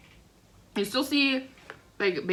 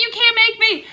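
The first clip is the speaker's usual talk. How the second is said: high, loud mock grandma whine; stubborn grandma; 13 semitones higher, 7 dB louder than usual. Grandma refusing to leave grandpa's yard, high and loud. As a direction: squeal it like a stubborn old lady. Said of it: "She's like".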